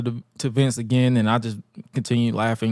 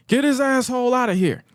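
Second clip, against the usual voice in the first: mock order to driver; 11 semitones higher than usual. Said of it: "before telling the driver".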